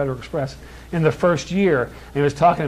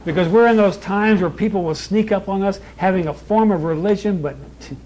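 raised, insistent pulpit delivery; forceful preaching; 4 semitones higher than usual. Real, not acted. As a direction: warn the congregation in a higher, driving preacher's voice.

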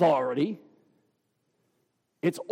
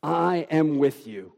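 a held pause before "I am with you", with stress on "am"; "am" leaned on after a beat; weighty "I am with you"; emphatic pause; 2 semitones lower than usual. Shown as a demonstration. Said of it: "You can almost hear the pause".

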